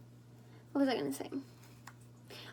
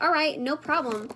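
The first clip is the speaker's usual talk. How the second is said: cocky; 4 dB louder than usual. Retold or imitated.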